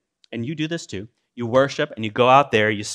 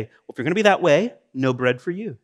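mock stern retort; 2 semitones higher than usual. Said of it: "Does God say".

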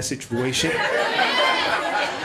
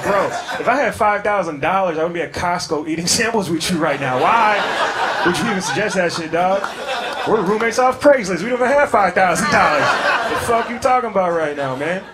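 louder, incredulous comic indignation; exasperated rant; 5 dB louder than usual. Retold or imitated. Broke roommate answering a startup pitch, loudly incredulous. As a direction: tell off a broke friend in exasperation.

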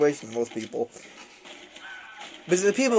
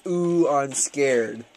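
mock scared; much slower than usual. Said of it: "He actually emailed me and said".

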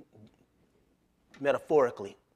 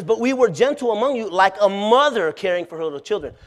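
loud reading; 4 semitones higher, 5 dB louder than usual. Shown as a demonstration. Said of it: "verse read again louder".

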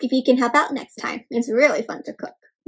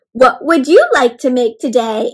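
buttery voice; 7 dB louder than usual. Shown as a demonstration. Teacher showing children how to say it, buttery. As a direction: melt the words out like butter. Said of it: "in a buttery voice".

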